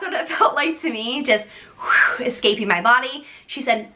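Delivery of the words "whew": voiceless blown whew; whoosh of gushing water. Retold or imitated. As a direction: blow out air like water escaping.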